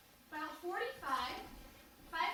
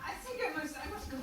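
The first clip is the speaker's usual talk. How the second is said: put-on softer, German-accented excuse to leave; 3 semitones lower, 3 dB quieter, faster than usual. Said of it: "speaks with a German accent".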